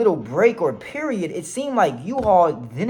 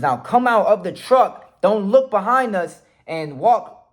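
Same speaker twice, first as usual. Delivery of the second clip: higher, deliberate mock police command; retold yelled instructions; 5 semitones higher than usual. Police directing driver out of truck, retold yell. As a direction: call out orders like a cop, lightly acted. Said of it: "yelling in-, instructions".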